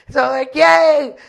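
a drawn-out little whoop; cheering a late-night snack run; excited yay. Retold or imitated.

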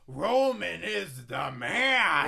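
slow, loud promo proclamation; booming hype voice. Acted. Vince hyping loudly.

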